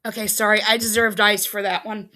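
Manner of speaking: crunching ice while talking; ice in mouth. Real, not acted. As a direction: talk around a mouthful of ice. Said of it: "put ice in my mouth".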